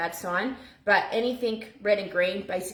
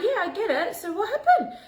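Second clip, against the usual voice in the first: laughing through a high reply; laughing question; 10 semitones higher than usual. Retold or imitated. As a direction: giggle while pressing her to explain.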